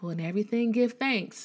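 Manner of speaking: lightly mocking preachy quote, rising high on give; imitating people. She mimics believers quoting scripture, lightly mocking. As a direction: parrot the pious cliché. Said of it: "people say it all the time".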